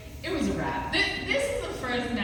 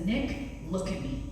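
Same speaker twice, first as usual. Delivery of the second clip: calm command; 4 semitones lower, 6 dB quieter than usual. Retold or imitated. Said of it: "like Cesar Millan".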